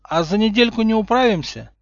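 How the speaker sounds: high, hopeful bargaining; pleading hope. A narrator's reading. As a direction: try to haggle it down. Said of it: "с ужасом переспросил Гарри". (с надеждой выпрашивает)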